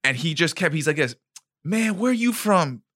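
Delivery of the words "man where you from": high, slow put-on tough-guy voice; a jeering high mock voice. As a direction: ham up the wannabe thug. White guy quoted in retold fight.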